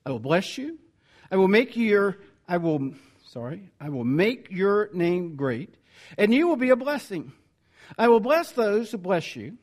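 measured, solemn Bible reading; scripture reading. Acted. Preacher reading Genesis to the congregation, solemn. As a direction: read God's words out to the church.

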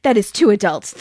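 pearl-clutching protest, lightly acted; flustered imitation of a shocked prude; scandalized. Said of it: "He was scandalized".

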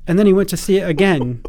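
lightly mock British accent; put-on British voice; generic British accent. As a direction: tell it as a stock Briton. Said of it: "do the generic British accent number one".

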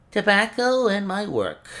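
put-on old professor's mournful exclamation; exclaimed. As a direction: burst out with Tobacco and my work. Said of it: "the old man exclaimed".

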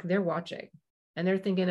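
normal talking voice

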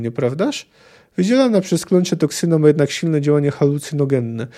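reading a novel aloud with lightly voiced characters; story narration. A narrator's reading. Lecturer reading a Witcher passage to the class, story narration. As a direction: tell the tavern scene like a storyteller.

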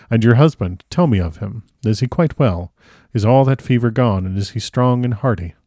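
lightly voiced impassioned old professor; emphatic foreign doctor, a touch of fervent protest; Van Helsing.

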